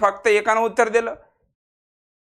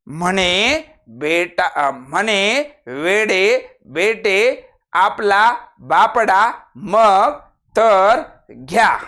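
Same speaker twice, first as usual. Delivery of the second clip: sarcastic drawl; much slower than usual. Shown as a demonstration. Teacher mimics sarcastic remark.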